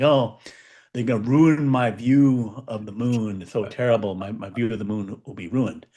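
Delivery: lightly acted lament, sinking as it goes; mock complaining. Mimicking people on X upset about the moon, mock complaining. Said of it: "who are complaining".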